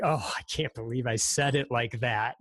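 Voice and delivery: mock embarrassed groan at oneself; cringing. Guest imagines hearing himself on the podcast, cringing. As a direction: replay your own cringe, lightly acted. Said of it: "I'm cringing when I hear it".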